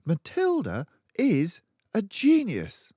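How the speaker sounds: put-on high, polite young teacher; high pleading teacher; timid teacher. A narrator's reading. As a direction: stand firm though nervous. Miss Honey insists.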